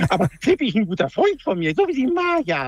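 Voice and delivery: lightly voiced cartoon bee pal; Willi. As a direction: talk like a friendly cartoon bee. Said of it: "du bist der Willi".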